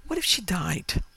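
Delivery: a tempting, unvoiced whisper. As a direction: breathe it like a secret. Renee tempts him toward murder.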